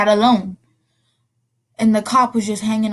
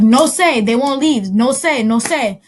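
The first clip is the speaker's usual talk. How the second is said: put-on little girl pleading; child's urgent cry; 2 semitones higher, 4 dB louder, slower than usual. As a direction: blurt it like a scared kid. Child's panicked no say.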